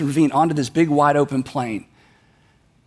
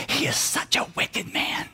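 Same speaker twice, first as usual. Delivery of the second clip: hushed, unvoiced whisper of a warning; 8 dB quieter than usual. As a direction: lean in and whisper it into her ear. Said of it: "She whispers in Abigail's ear".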